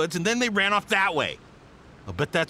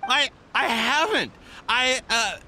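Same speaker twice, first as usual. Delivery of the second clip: higher, halting, caught off guard by the accusation; flustered protest; 5 semitones higher, slower than usual. Acted. Accused merchant protests to his accusers, flustered. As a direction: stammer it out, pitched up.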